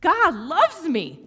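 high, loud, very slow cry of wonder; overwhelmed girl. Retold or imitated. Sobbing teen telling the leader God loves her, overwhelmed. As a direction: stretch it out, overcome. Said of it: "And she goes".

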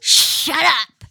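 lightly voiced kid reading diary; pinched voice. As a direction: read it like an excited young girl. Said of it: "I'm gonna do my kid voice".

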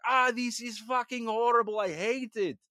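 high, put-on cartoon vampire voice; Michael Morbius. Podcaster retells vampire answering Spider-Man, high mock-anguished Morbius. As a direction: complain like a hammed-up animated vampire. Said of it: "that's how he sounded".

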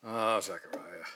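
hushed, breathy whisper of his name; a soft, mock-tender whisper. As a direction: whisper it gently, barely voiced. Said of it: "Do you think he whispered".

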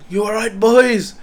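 teacher's voice. Retold or imitated. Teacher asking the boys if they're okay, loud hearty call. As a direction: play the jolly teacher breaking it up. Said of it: "he was like".

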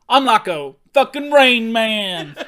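slow, loud laughing boast; laughing brag. Real, not acted. Host bragging about mental math, laughing. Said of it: "Did you just do that math".

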